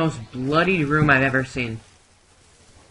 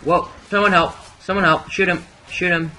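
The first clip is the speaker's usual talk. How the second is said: calling for help; 4 semitones higher, 4 dB louder, faster than usual. Real, not acted. Attacked, calling teammates.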